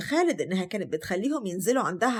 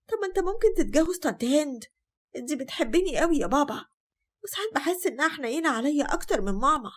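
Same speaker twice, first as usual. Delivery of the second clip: put-on lightly raised childlike voice, coaxing; a child sweet-talking her dad, pitched up; little girl Salma; 6 semitones higher than usual. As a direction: daughter coaxing father, in a lightly higher girlish voice. Child Salma pleads with father.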